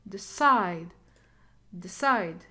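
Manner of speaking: Decide with a light de and strong CIDE; second-syllable stress. Shown as a demonstration. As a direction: lean on the end of Decide. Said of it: "we never t-, stress D".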